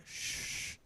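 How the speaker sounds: soft, teasing "shh"; a hushed, mock-seductive shush; mockingly seductive shush. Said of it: "almost, like, mockingly, seductively".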